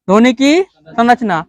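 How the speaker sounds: slow, word by word; slow dictation. Shown as a demonstration. Teacher dictating the topic to the class, slowly. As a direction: spell it out slowly so students can write. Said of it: "teacher repeats the topic for dictation".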